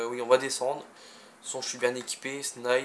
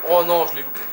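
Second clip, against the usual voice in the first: frustrated shout; 4 semitones higher, 10 dB louder than usual. Real, not acted. Misses a shot in game.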